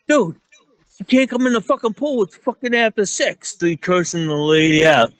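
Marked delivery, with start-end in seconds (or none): 0.1-3.6 retold telling off. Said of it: "I was like".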